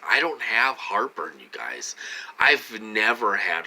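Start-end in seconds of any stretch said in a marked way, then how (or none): 1.4-1.9 hushed confiding whisper. Real, not acted. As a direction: whisper it like a secret. Sudden confiding aside.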